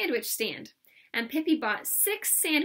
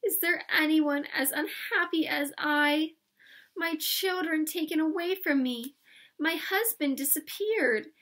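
high, drawn-out theatrical lament; slow, plaintive melodrama; 5 semitones higher, 3 dB louder than usual. Acted. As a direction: lament your woes like a stage countess. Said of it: "said in a plaintive voice".

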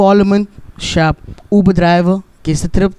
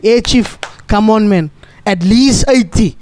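higher, pushy voice of the Pope in a hurry; impatient Pope; 3 semitones higher than usual. Retold or imitated. The Pope pushing his Uber driver to speed up, higher and impatient. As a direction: hurry the driver along, a touch exasperated.

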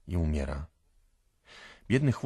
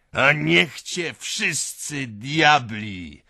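loud, slow, drawn-out furious curse; enraged roar; 8 semitones higher, 8 dB louder, much slower than usual. A narrator's reading. Furious owner cursing his mare, roaring. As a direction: roar it with full rage. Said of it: "ryczy rozjuszony Mikołka".

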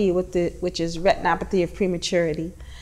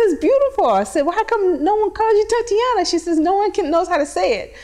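raised voice; 10 semitones higher than usual. Retold or imitated. Retelling an admiring chat.

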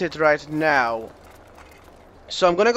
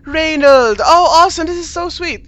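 very high, excited squeal; overjoyed exclaiming; 8 semitones higher, 6 dB louder than usual. Acted. Siblings reunited after a rescue, overjoyed. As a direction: cry out, pitched way up.

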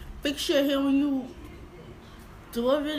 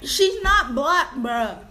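louder, slower, pressing every word; insistent retort; 5 dB louder, slower than usual. Real, not acted. Vlogger insists to viewers the girl is not black, firm and louder. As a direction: set the record straight, firmly.

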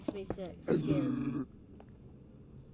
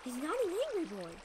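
put-on coaxing baby talk; 7 semitones higher, much faster than usual. Soothing a possibly angry mob.

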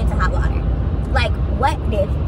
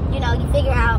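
talking through a mouthful; words round a bite of food; mouth full. Real, not acted. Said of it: "I put a big piece in my mouth".

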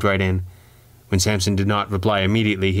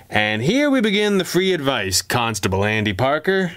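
smug; 5 semitones higher than usual. Acted. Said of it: "Samson said smugly".

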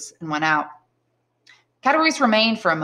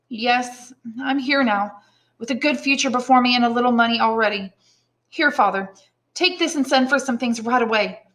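higher, lightly eager comforting; reassuring young Edmund; 6 semitones higher than usual. Acted. Son home with money comforts father, reassuring.

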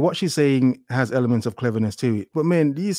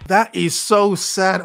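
mock sad laugh; 5 semitones higher, 4 dB louder, much slower than usual. Real, not acted.

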